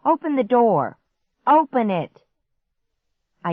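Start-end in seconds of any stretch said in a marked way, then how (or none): 0.1-2.2 high, loud commands; urgent shout. A narrator's reading. Boy trapped at locked door, shouting. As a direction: shout frantic orders. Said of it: "Clark shouted".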